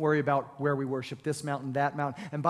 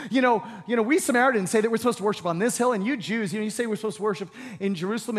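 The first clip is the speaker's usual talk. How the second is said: launching into debate; 4 semitones higher, 4 dB louder, faster than usual. Retold or imitated. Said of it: "she launches into this religious discussion".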